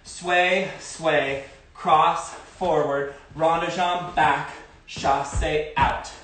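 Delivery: slow, drawn-out step calls; calling dance steps. Shown as a demonstration. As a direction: call each step to the beat. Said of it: "Let's do that again".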